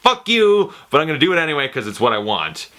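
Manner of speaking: defiant retort. Retold or imitated. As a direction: bark it back, then rush the rest.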